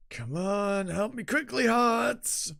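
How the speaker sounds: high, rising call for help; urgent plea. Acted. Fighter begging Hearts for quick help, urgent.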